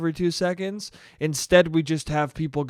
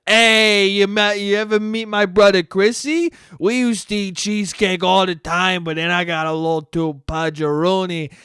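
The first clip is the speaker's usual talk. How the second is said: mock Cuomo. Cuomo tells brother story.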